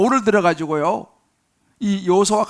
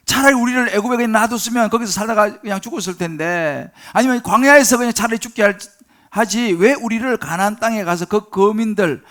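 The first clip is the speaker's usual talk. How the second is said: bitter complaint; 2 semitones higher, 5 dB louder than usual. Acted. People grumble against Moses.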